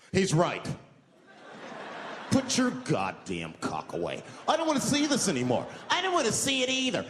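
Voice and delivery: suddenly bold, loud passengers; hammed-up courage from the crowd; mock brave passengers. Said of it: "now they're brave".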